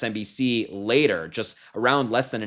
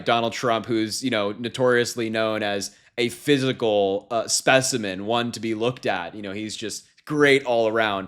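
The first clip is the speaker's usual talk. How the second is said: mock admiring, tongue in cheek; sarcastic praise. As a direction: praise him while meaning the opposite. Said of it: "Please sense the sarcasm in my voice".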